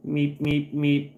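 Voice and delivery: a quick nervous Muppet squeak; Beaker meeps. Retold or imitated. Answering a chat reference, a light Beaker-style meeping.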